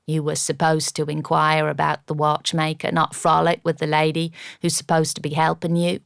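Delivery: a lightly voiced cheeky American butler, chiding; insolent butler. Cheeky butler chides his master for frolicking with the lady. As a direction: tease the master like an equal, not a servant.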